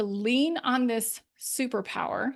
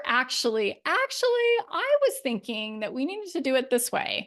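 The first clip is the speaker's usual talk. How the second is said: hesitant hedge; 2 semitones higher than usual. Shown as a demonstration. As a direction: back off timidly before pushing the idea. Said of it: "how I say these things".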